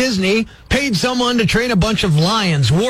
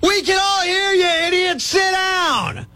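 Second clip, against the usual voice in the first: higher, irritated scold; angry shout; 6 semitones higher than usual. Retold or imitated. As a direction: snap at the loudmouth to sit down. Telling off a loud moviegoer.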